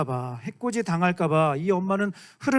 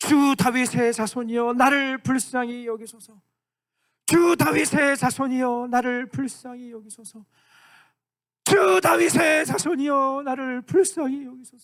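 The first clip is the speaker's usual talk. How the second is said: acted woman's voice crying out, shouted, pleading, higher; 6 semitones higher, 3 dB louder than usual. Acting out the woman's repeated cry to Jesus: imitating a woman crying out. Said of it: "계속 소리를 지르는 거예요".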